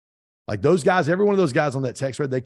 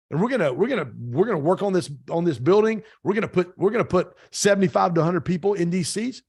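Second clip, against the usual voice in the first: mock excited, higher voice, rattling off plans; imitating hyped-up plans; 5 semitones higher than usual. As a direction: play the eager friends pumping each other up. Friends hyped about buying building.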